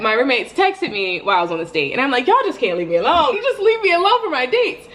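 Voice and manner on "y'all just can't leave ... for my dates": much higher, fast, fed-up whine; exasperated. Retold or imitated. To roommates texting mid-date, fed-up whine. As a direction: beg them to finally leave her alone.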